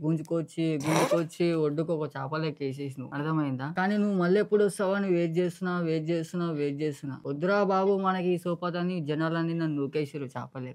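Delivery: soft, pleading love confession; mock proposal. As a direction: confess love softly and dramatically. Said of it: "propose చేయాలి". (మృదువుగా ప్రేమ proposal)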